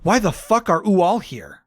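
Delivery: half-hearted yell with lifted pitch; mock yell. A narrator's reading. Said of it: "I yelled as I jumped up".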